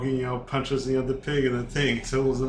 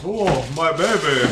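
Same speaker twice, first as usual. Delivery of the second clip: high, loud mock wail; mama bear's anguished cry, played for laughs; 4 semitones higher, 6 dB louder than usual. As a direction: ham up a grieving mother bear. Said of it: "the big mama bear, the werewolf bear, goes".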